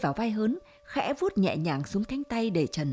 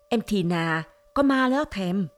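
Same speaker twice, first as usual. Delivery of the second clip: put-on voice. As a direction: joke in a silly put-on voice. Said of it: "còn giả giọng nữa".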